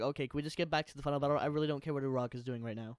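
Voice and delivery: rattled off quickly, dismissively; fast, fed-up retold thought; impatient quote. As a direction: rush through it as an impatient inner complaint. Voicing own impatient reaction in theater.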